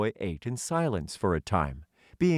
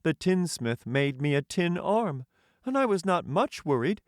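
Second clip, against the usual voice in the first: Tin Man voice; 11 semitones higher than usual. Acted. The Tin Emperor welcoming a hungry stranger, high and stately. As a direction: lift the voice high and speak as a courtly tin ruler.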